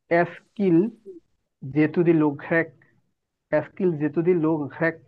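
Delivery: "এসকিল জেতুদি লোঘ্রেক" linked as "es-kil zétudie le grec"; elision and liaison. Shown as a demonstration. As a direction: model "এসকিল জেতুদি লোঘ্রেক" with kil as one syllable and a linking z. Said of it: "প্রথম শব্দের ভাওয়ালটা মুছে ফেলবো".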